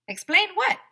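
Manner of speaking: high, loud innocent question; flustered kid. Acted. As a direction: play dumb with a squeaky innocent voice. AJ caught, playing dumb.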